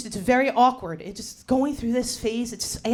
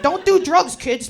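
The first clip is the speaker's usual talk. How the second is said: PSA voice; 5 semitones higher, 6 dB louder, slower than usual. Retold or imitated. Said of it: "to be like".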